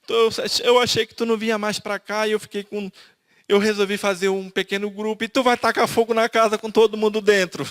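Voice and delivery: a mild retold echo of the wife's despair; desperate crying. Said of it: "ela entrou num choro desesperador".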